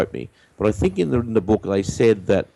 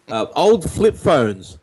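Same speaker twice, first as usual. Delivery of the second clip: vintage announcer, higher, drawn out; old radio voice; 6 semitones higher, slower than usual. Pretend. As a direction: newsreel delivery, stretch the words. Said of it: "the old radio voice".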